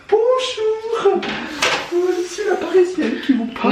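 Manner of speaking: high, loud snooty Parisian lady; posh french drawl. Pretend. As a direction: play the stuck-up Parisian bourgeoise. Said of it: "elle parle comme une bourgeoise".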